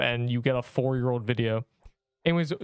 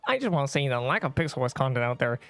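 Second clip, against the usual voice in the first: nerdy voice reading chat; nerd voice. Retold or imitated. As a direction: read it out like a nerd. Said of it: "I read long messages, like, uh, in a nerd voice".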